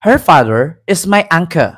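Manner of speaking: lightly imitated British accent; a hint of put-on British English; mock British accent. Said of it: "hindi tayo mag-British accent".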